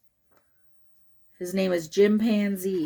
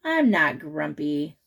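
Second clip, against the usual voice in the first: lower, slow grumble; a touch of sulky; 5 semitones lower than usual. Acted. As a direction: mutter it, sulking. Jim sulks quietly.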